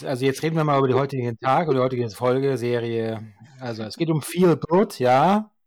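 overdriven, too close to mic; clipping from mic too near; fuzz distortion. Real, not acted. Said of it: "Kannst du bitte nicht so nah ans Mikrofon gehen? Ich, du übersteuerst total".

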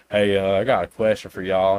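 lightly imitated Southern accent; Soup. Quoting a YouTuber prank calling fake customer support, light Southern accent. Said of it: "he has a real thick Southern accent".

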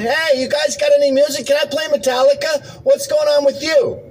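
high, loud shouting over the dryer noise; mock loud shouting. Man under a salon hair dryer, hamming up a loud shout. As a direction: yell like you can't hear yourself under the dryer.

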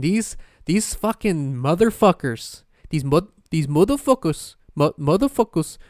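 a bad, slowed Indian accent, mildly put on; poorly faked Indian accent on the curse. Mocking scam callers in a weak Indian accent. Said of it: "That was my attempt at an Indian accent".

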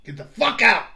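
loud, high-pitched enraged Santa yell; hollering. Retold or imitated. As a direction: holler it like a Santa who has lost it. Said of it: "kept on hollering".

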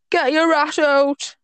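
botched Geordie catcall; attempted Geordie accent. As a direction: imitate Geordie schoolboys, drawn out. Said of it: "I can't even do the accent".

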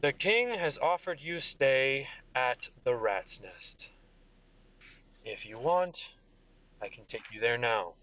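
slow, flat, bored delivery; monotone. Acted. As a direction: recite it like a tired official. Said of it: "he says it very monotonely".

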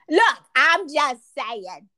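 slow, drawn-out protest; leisurely, teasing comeback; playful self-defence. Real, not acted. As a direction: stretch each word in mock innocence. Teasing self-defence after being ribbed.

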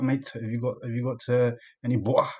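lightly mimicked Brummie flatmate; Birmingham accent. Uni flatmate asking for butter in the morning, light Brummie accent. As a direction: drop the middle of "butter", Brummie-style. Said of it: "He's from Birmingham".

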